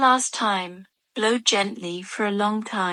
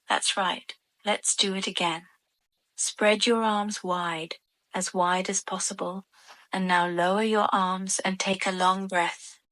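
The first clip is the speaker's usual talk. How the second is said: guided meditation. Real, not acted. Adult guiding children through stretches and long breaths, guided meditation voice. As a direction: lead gentle stretches, pausing between instructions. Leads children's relaxation exercise.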